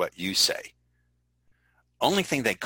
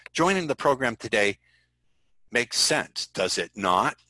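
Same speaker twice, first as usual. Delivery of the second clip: mock pushy salesman; 3 semitones higher than usual. Shown as a demonstration. Trainer mocking a pushy salesman's tag question. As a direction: push the tag question like an old-school closer. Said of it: "The tag questions".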